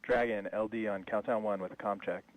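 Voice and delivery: radio headset transmission; crackly comm loop voice; over a pilot headset. Real, not acted.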